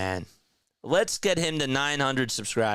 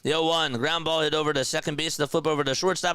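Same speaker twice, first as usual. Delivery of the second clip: building excited play-by-play; excited play call; 6 semitones higher, 3 dB louder than usual. Acted. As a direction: double play call rising high and loud, stretched out.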